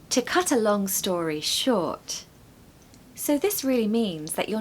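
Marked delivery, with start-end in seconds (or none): 0.1-2.2 slow, clear model of "to cut a long story short". Shown as a demonstration. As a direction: spell it out for learners. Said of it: "Number five".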